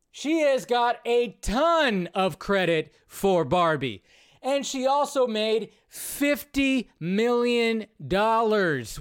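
loud, slow, disbelieving outburst; exasperated rant. Real, not acted. Host ranting at Downey's Barbie comment, loud and slow. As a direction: hammer each word out in disbelief.

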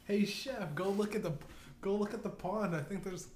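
bait him sweetly, a bit high; sly Obama lure. Retold or imitated. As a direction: Obama luring the chef to the pond. Obama luring chef.

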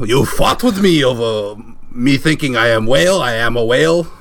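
lightly voiced foreign whale caller; hesitant put-on accent. Whale caller insisting he is a whale, hint of foreign accent.

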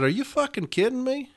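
retold stunned reaction to the caller; incredulous outburst. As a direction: squeak it out in shock. Retelling his shocked reply on the phone.

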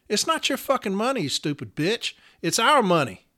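sharp, high, furious jab; bitter outburst over the money; angry insult. Real, not acted. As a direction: lash out at her in real anger. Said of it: "I'm just angry".

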